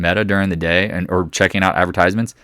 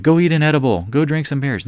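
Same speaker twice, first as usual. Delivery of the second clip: higher-pitched mock of naysayers; quoted crowd voice, a step higher; mimicked listeners; 6 semitones higher than usual. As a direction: mimic people brushing you off, pitched up. Mimics listeners telling them to chill.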